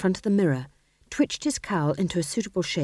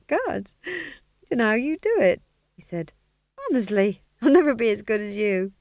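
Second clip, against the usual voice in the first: nervous Daffy; 4 semitones higher than usual. Acted.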